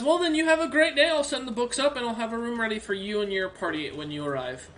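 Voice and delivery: lightly voiced helpful orc librarian, eager; a friendly old bookkeeper orc, perking up.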